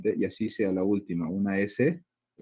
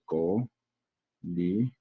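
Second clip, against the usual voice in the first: "co, li" split by a clear pause; teacher sounding out syllables; 3 semitones lower than usual. Shown as a demonstration. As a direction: break it into "co" and "li" for a class. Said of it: "es una palabra aguda".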